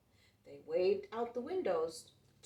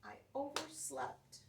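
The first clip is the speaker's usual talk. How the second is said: mild weeping piggy; 7 semitones higher than usual. Acted. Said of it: "poor Piggy wept".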